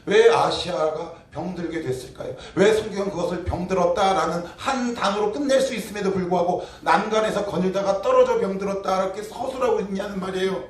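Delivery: normal talking voice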